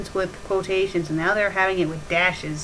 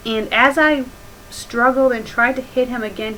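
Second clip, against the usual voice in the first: loud, higher dramatic read; heated reading; 3 semitones higher, 9 dB louder than usual. Real, not acted. Reader reading the fight loudly, heated. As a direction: belt out the fanfic lines.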